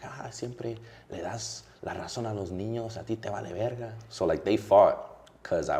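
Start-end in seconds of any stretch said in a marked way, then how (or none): 0.0-3.9 raised, scolding mom voice in Spanish; mimicking mom. Imitating his mom scolding him for siding with the kids. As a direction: mimic an exasperated mother complaining. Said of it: "And she'll be like".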